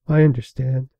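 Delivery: gentle, understanding tone; said softly. A narrator's reading. Old pony comforting the princess, softly. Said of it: "Fluttershy said softly".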